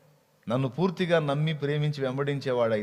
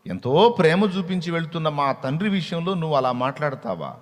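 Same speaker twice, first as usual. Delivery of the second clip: Eve rebuking the serpent, louder and indignant; 4 dB louder than usual. Acted. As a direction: defend the father hotly, as a wounded daughter. Eve defends God to the serpent. (హవ్వ కోపంగా సర్పాన్ని నిలదీయడం)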